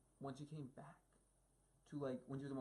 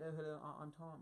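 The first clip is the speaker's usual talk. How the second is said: lightly imitated British accent; a hint of British, offhand imitation; Tom Holland; 4 dB quieter than usual. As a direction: slip into a casual mock British accent. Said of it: "right back to British".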